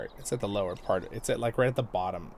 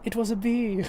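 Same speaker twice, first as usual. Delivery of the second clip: higher, lightly mocking little voice; sulky noble girl; 9 semitones higher than usual. Retelling Ever After to viewers, a higher mock-innocent girl. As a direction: play the spoiled girl's lame excuse. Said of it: "and the girl just goes".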